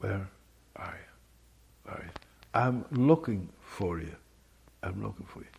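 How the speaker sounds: small voice. Speaker imagining God calling out to Adam, in a small voice. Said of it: "I think he said it perhaps in a small voice".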